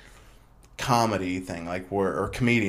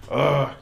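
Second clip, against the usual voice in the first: choked-up groan; 5 semitones higher, 4 dB louder than usual. Retold or imitated. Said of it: "got me all, like, choked up".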